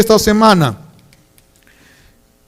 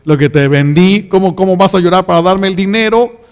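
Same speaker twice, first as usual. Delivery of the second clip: crying customer. Retold or imitated. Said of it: "cuando te va a pagar llora".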